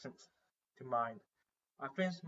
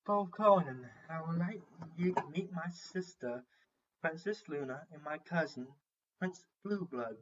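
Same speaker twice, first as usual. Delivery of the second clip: slightly higher voice, making formal introductions; a hint of a royal hostess, pitched up; lightly voiced princess; 4 semitones higher than usual. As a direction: introduce your relatives in a lightly raised voice. Narrator voices Celestia introducing relatives.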